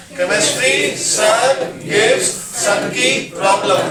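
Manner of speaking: slow, deliberate mnemonic chant; slow recital. Shown as a demonstration. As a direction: spell the mnemonic out slowly for the class. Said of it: "बोलो एक बार". (धीमा, रटाने वाला लहजा)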